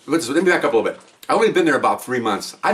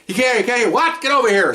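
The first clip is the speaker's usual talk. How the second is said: much higher, urgent rushed cries; frantic pleading; 9 semitones higher than usual. Retold or imitated. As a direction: plead over the confusion. Frantic shouting at the scene.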